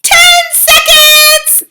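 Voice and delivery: high, loud, slow witch countdown; witch crying out. A narrator's reading. Grand High Witch counting down to the audience. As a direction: cry out the countdown gleefully. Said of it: "cried the Grand High Witch".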